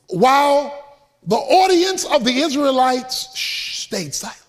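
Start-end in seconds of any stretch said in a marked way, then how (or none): 3.4-4.4 hushed, breathless whisper. A narrator's reading. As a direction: whisper it as if silencing a crowd. Crowd keeping silent.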